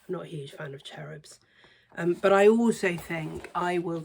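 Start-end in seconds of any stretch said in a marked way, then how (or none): 0.1-1.4 whispered confession; a soft conspiratorial aside. Real, not acted. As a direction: drop to a confiding whisper. Confiding dislike in a whisper.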